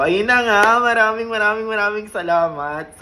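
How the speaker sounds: after crying. Real, not acted. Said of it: "Sorry kung naiyak ako".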